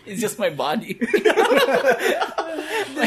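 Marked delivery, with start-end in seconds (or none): 1.0-2.9 high burst of laughter. Real, not acted. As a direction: laugh out loud, long. Big laugh after joke.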